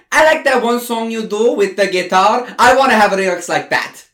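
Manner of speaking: high, loud put-on Latino accent; a white girl faking a Latino accent; fake Latino accent. Pop singer to songwriters, in a put-on Latino accent. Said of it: "she's putting a Latino accent on".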